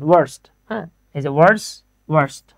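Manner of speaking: "ওয়ার্স, ওয়ার্স্ট" with the r sounded; "ওয়ার্স, ওয়ার্স্ট" as worse and worst with an audible r; American pronunciation. Shown as a demonstration. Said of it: "আর American তো".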